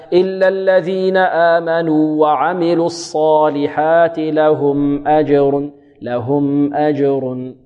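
slow chanted recitation, vowelless م in "لهم" given its moderate length; still, measured meem. Shown as a demonstration. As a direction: sustain the م of "لهم" without bouncing into "أجر". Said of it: "هكذا".

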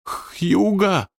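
high call of a name. Acted. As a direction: call out to Hugo. Mae calls out. (высокий оклик)

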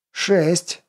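a hint of toothless old woman mumbling. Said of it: "прошамкала старуха". (слегка шамкая, по-старушечьи)

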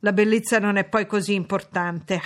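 a mild mocking repeat of her words; teasing imitation of Jane; mocking echo. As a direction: parrot her sentence back with light scorn. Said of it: "Ma niente affatto".

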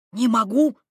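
hanging on for dear life. A narrator's reading. Student hanging from ledge.

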